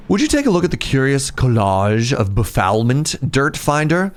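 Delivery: put-on a light posh accent that slips toward confused and out of breath; lightly snooty voice losing its grip; bougie accent. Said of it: "I don't know what happened to my accent there".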